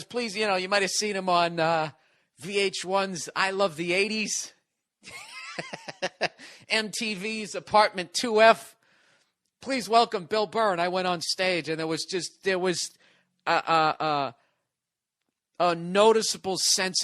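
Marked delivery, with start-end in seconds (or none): 0.0-10.7 mock host reading weak credits, higher, laughing through it; underwhelming host intro. Godfrey introducing the unknown comic after stars, mock announcer. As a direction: sell a nobody with a straight face. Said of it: "He goes".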